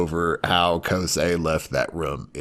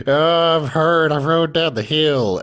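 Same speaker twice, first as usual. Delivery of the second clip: much higher, louder whiny cry; hammed-up childish wail; mock whining crying; 9 semitones higher, 4 dB louder than usual. Little boy crying over a scraped knee, higher loud mock whine. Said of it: "he's crying 'cause".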